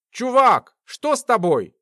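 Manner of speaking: a sudden alarmed shout at his friend. Acted. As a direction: call out sharply, worried. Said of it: "закричал Глеб".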